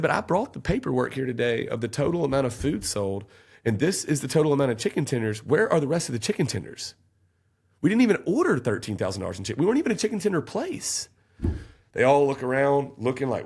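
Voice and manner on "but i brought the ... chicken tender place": higher, building to disbelief; incredulous argument. Retold or imitated. Defendant showing paperwork to the jury, building incredulity. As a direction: lay out the evidence, then scoff high. Arguing his case to grand jury.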